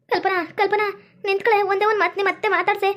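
calling out. Acted. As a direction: call her back before she goes. Mother calls after leaving daughter.

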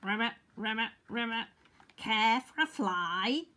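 lightly croaked frog voice; croaking friendly frog. A narrator's reading. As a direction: croak out a friendly frog's offer. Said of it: "croaked a friendly frog".

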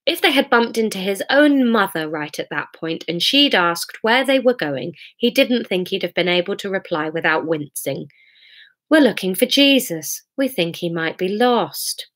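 measured, expressive narrator; dramatic story narration. A narrator's reading. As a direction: paint the storm as you read. Reads story aloud.

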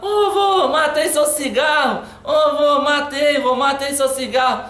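mock childish shout; kid yelling. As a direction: yell it proudly like a little boy. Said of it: "um molequinho falando".

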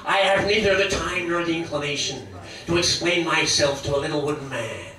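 lightly voiced smug snarl; Jack Nicholson impression. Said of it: "it's gotta be, Jack Nicholson".

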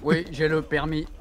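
slow synthetic robot speech. Pretend. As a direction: speak like a car's voice mode. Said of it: "tu fais la voix de robot".

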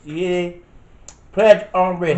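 loud, dramatic warning; ominous loud warning. Pretend. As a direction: announce it like a threat. Repeats warning louder.

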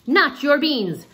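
high, loud, slow outraged cry; high slow outraged outcry. Acted. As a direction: protest it with indignation. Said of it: "cried Skipito, outraged".

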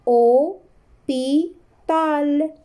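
O, pi, tal said syllable by syllable; slow syllabic reading; syllables spelled out. Shown as a demonstration. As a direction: break "hôpital" into O, pi, tal. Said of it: "Je répète".

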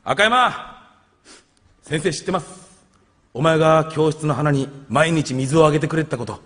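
holding back tears. Acted. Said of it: "涙をこらえながらこう言う".

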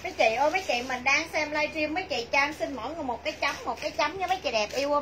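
loud, bright sales pitch; calling out. Real, not acted. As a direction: call out to the viewers. Livestream seller calling out to viewers.

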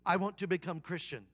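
imitated Vietnamese-accented declaration. Restaurant owner decides on faith, Vietnamese accent. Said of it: "try to do a Vietnamese accent".

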